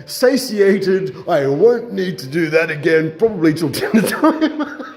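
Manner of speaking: slow, drawn-out mock contentment, laughing through it; milk each word, laughing at your own joke; hammed-up satiated. Cook pushing the joke to viewers, laughing and slow. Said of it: "See how far I can push this one".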